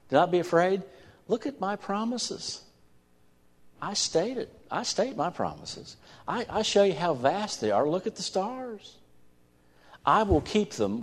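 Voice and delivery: rising fervent proclamation. Acted. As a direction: lift it up as a proclamation.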